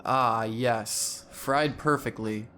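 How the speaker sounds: soft creepy glutton. Acted. Gluttonous man character voice.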